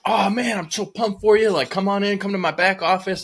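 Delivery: high-pitched imitation of an overeager greeter; super excited. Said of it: "super excited".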